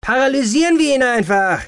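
loud, high-pitched impatient urging; hissing intruder. A narrator's reading. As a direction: push for action in a high, forceful voice. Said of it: "zischte ein weiterer Eindringling". (ungeduldig zischend, laut und hoch)

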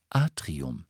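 detached lift announcement; cool witch's voice. A narrator's reading. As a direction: announce the floor coolly. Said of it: "die kühle Stimme der Hexe".

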